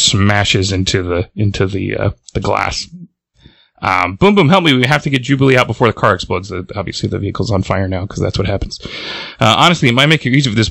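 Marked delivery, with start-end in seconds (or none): 4.2-6.5 high, then hurried acted appeal; urgent plea. Teammate to Boom Boom at the burning car, acted urgency. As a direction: call for help, then rush the reason. Calling for help at wreck.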